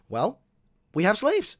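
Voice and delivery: hammed-up defensive objection; mocking imitation. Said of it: "the norm he was born into then was".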